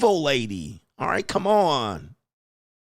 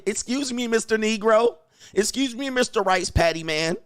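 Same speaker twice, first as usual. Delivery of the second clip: high-pitched mock polite request; mock woman's voice; 9 semitones higher than usual. Host mimics women asking strangers for favors, mock woman's voice.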